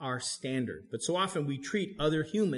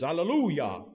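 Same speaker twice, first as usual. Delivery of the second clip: louder mock preacher's Hallelujah; southern preacher; 3 semitones higher, 5 dB louder than usual. Pastor imitating southern preachers he once mocked, hammed-up Hallelujah. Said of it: "those southern preachers".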